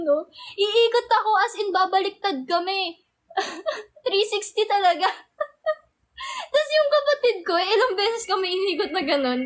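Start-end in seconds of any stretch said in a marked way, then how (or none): 5.8-9.4 laughing through the words; can't stop laughing while telling it. Real, not acted. Vlogger to her viewers, laughing hard while she talks.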